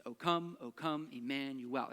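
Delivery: "O come" with COME stressed; light O, weight landing on COME; iambic stress. Shown as a demonstration. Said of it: "It's always unstressed, stressed".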